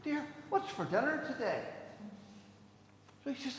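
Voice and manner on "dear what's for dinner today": high sing-out to the kitchen; calling out. Acted. Doctor showing how to call to the wife in the kitchen, calling out. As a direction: call through from the next room, pitched up. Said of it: "in the kitchen and shout".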